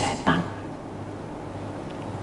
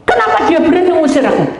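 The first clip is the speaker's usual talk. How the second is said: higher, fast retold protest; mock indignation; 8 semitones higher, 4 dB louder, faster than usual. Spirit protesting at being cast out, quick mock indignation. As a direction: fire it off like an offended spirit.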